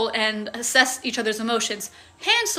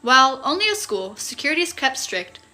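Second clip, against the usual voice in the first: story narration. A narrator's reading. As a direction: read it like a novel chapter. Reads the novel aloud.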